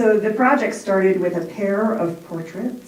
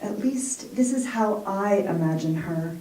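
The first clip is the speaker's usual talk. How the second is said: poem reading. Acted. Poet reading her portrait poem to the audience, measured recital. Reads own poem aloud.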